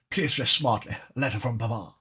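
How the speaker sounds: hammed-up posh English accent. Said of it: "saying it in a posh accent".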